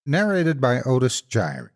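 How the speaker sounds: measured, even storytelling read; story narration. A narrator's reading. Reads a horror story aloud.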